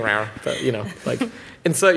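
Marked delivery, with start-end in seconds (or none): 0.0-0.3 brief mock bear roar; casual imitation of a bear; imitated bear growl. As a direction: toss out a token bear rawr. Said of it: "I assume it's going".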